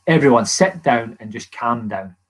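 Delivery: low, slow, steadying instruction; retold calming order. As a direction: imitate a manager settling the room. Retold manager settling the dressing room.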